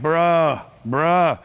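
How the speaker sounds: low, drawn-out "bruh" of disbelief; disbelieving bruh. Acted. Speaker mimicking the room's reaction to the big number, disbelieving. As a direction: say "bruh" low, like a doubter in the room. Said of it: "most of you in the room like".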